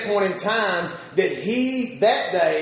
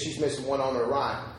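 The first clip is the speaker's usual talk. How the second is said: quiet, low, resigned reply; a grandfather softly owning the sacrifice; soft sad admission; 9 semitones lower, 8 dB quieter than usual. Retold or imitated. Grandfather quietly telling the speaker they each gave a kidney, hushed and sad.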